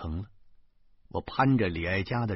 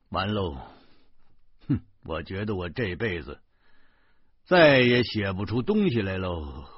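grieved. Acted. Writer moans to teacher in the lift, mildly grieved. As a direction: lament it with understated despair. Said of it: "我沉痛地说".

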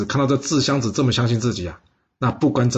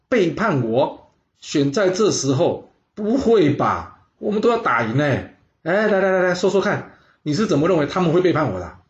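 incredulous lord; 5 semitones higher than usual. Acted. Lord doubting his adviser's warning, higher incredulous voice. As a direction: scoff at the idea, then coax the adviser to speak.

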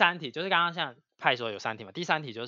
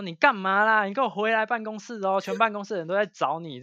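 higher, louder scolding big-sister voice; scolding senior sister; 7 semitones higher, 4 dB louder than usual. Retold or imitated. Senior sister calling the crying junior back, higher scolding tone. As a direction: nag her junior to come back, a bit higher.

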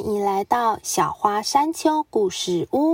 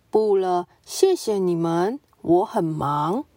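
lower, dignified polite refusal; a solemn, noble zebra brushing them off; serious zebra; 4 semitones lower than usual. Acted. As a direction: zebra politely declining to play.

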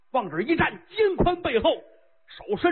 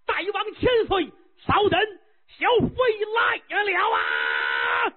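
monstrous woman's voice; 10 semitones higher than usual. Acted. Ugly consort answers the king from the tree, coy then booming.

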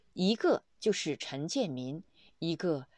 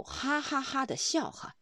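imitated laugh; 6 semitones higher than usual. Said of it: "弥宏大师哈哈大笑".

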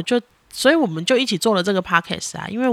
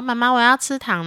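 lightly voiced pleading kid; higher little-kid ask, lightly imitated; imitated child's request; 4 semitones higher than usual. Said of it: "看到人家小朋友说".

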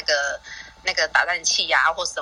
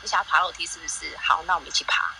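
gentle calm coaxing; 2 semitones lower than usual. Retold or imitated. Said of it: "收起那种很想发脾气的那个，很想回家的那心情".

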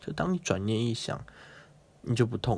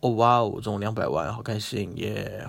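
deadpan Buddha. Retold or imitated. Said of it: "佛陀就".

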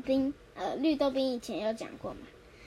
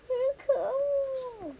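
high, loud outrage; outraged; 13 semitones higher, 3 dB louder, much faster than usual. Acted. Mother fuming at the guest's soap, high and loud. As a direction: spit it out indignantly.

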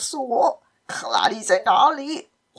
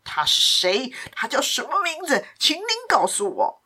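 trembling anger; 4 semitones higher than usual. Acted. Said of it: "气到发抖".

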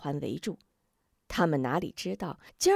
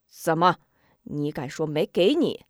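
stern threat; 2 semitones lower, 3 dB louder than usual. Acted. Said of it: "双眉一竖".

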